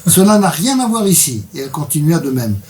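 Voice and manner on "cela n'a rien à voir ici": lightly voiced cutting judge, raised pitch; abrupt interruption. Reader voices judge interrupting the accused, mildly abrupt. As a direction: cut in with mild authority. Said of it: "Elle me coupa la parole abruptement".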